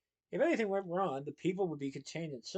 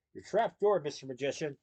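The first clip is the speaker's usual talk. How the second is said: joking. Acted. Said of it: "she joked".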